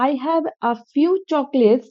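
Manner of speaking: I have a few chocolates, words spaced out; slow example sentence. Shown as a demonstration. Teacher gives the positive example slowly. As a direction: dictate it slowly and clearly. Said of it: "আমি যদি বলি".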